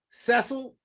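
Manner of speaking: Cecil said SESS-ul, with a short e; mispronounced name. Retold or imitated. Teacher calls out his name, Cecil mispronounced as SESS-ul. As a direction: imitate someone misreading Cecil as SESS-ul. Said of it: "we had the same issue in school".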